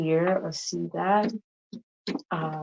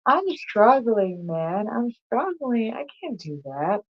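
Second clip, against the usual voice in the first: slow, louder, whiny groaning plea; mock struggling complaint; 5 semitones higher, 5 dB louder, slower than usual. Retelling him complaining to her, a slow mock whine. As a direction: ham up a worn-out guy's lament.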